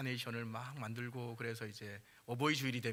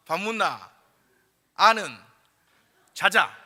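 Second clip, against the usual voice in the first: blunt Gyeongsang-dialect husband, louder and higher, a word at a time; gruff Gyeongsang man; 5 semitones higher, 14 dB louder than usual. Retold or imitated. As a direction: come home from work and grunt at your wife in Gyeongsang dialect. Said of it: "경상도 남자들은 퇴근해서 딱 집에 가면 딱 세 마디 한다". (퇴근한 경상도 남편이 툭툭 던지는 사투리)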